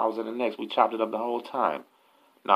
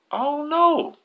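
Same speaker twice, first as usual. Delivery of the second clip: high, drawn-out shout back; hollered answer; 4 dB louder, slower than usual. Retold or imitated. Joe answers the yell from downstairs, hollering back. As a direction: call back up from a distance.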